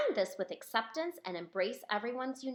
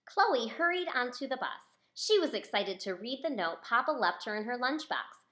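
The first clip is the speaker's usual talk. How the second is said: plain reading voice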